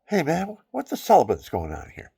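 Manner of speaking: high, loud "Hey, man" swooping up; mock greeting. To a friend, using celibate instead of the swear, loud and high. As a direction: shout it out cheerfully, swapping in the new word. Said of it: "So I go".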